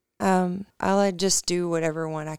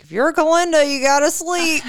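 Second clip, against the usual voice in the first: high, louder sing-song Galinda imitation; mock Galinda voice; 10 semitones higher, 7 dB louder than usual. Friend teasing mom with a high Galinda voice. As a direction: lightly play the prissy Galinda. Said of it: "she was like".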